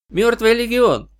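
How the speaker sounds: high excited cry of hope; excited shout. A narrator's reading. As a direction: jump up and shout it with joy. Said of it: "вскочил Тирс".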